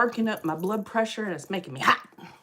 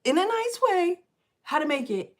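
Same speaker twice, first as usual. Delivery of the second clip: retold scolding; 8 semitones higher, 3 dB louder than usual. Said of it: "I'm like".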